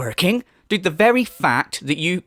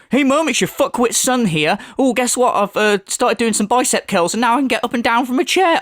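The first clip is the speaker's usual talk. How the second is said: mock proud son; 5 semitones higher than usual. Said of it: "What a phone call, man".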